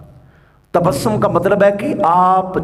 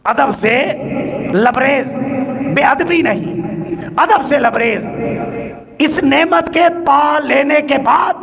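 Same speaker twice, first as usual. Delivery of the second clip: raised, deliberate phrases with pauses; emphatic preaching; 8 semitones higher than usual. Real, not acted. Preacher describing a reverent smile to worshippers, emphatic preaching. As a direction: ring out each phrase to the hall.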